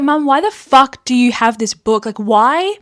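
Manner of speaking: a touch of heated outrage at mum; retelling the angry phone call to mum, mildly heated. Retold or imitated. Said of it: "I was like".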